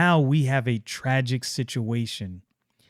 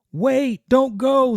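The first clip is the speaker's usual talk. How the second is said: high pleading call; 12 semitones higher, 3 dB louder, slower than usual. Acted. Yaira calls after fleeing Stefania, high.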